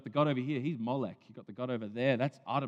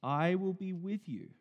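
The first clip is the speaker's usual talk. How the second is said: God's promise; 8 semitones higher, 6 dB louder, slower than usual. Retold or imitated. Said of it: "He says".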